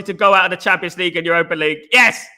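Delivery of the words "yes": gleeful cheer. Real, not acted. Cheering Chelsea possibly going out.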